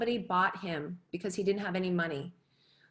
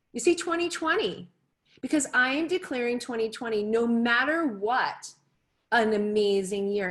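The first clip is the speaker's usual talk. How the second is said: rousing declaration; 3 semitones higher, 3 dB louder than usual. Real, not acted. Declaring 2020 to audience.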